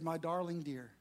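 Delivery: hammed-up loving reply; a pretend perfect husband, lightly sweet; mock tender husband. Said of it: "I wish I could tell you that what I did was said".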